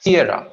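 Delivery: Sierra with a long Sie and short ra; long first syllable. Shown as a demonstration. Teacher models Sierra, first syllable lengthened. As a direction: draw out the start of Sierra. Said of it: "सीए first syllable थोड़ा लंबा खींचेंगे".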